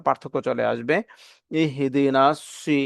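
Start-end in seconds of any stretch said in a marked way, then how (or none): 1.6-2.8 ইহদিনা সি, slow, with lips rounded on the s; rounded heavy s. Shown as a demonstration. Teacher contrasting two s letters, ইহদিনা সি slow and rounded on সি. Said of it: "ঠোঁটটাকে গোল করে".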